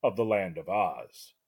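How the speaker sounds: epic trailer-style narration; dramatic narration. A narrator's reading. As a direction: read it like a movie trailer. Scripted podcast intro narration.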